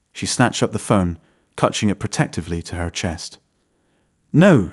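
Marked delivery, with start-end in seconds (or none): 4.3-4.7 a sudden high, loud cry of refusal. A narrator's reading. Wife refusing to hand over her phone, high loud cry. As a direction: blurt it out high and loud, panicked. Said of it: "she cried".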